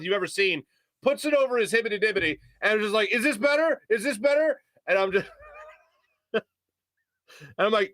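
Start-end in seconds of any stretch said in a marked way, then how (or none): 3.1-4.6 high-pitched, insistent questioning; imitated yelling. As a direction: imitate a loudmouth checking in. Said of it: "it's still yelling".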